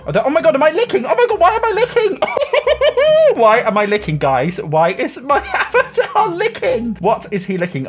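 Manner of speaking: loud high squeals broken by laughter; shriek-laugh at something absurd; laughing disbelief. Real, not acted. Player cracking up as her avatar keeps licking, loud laughing squeals.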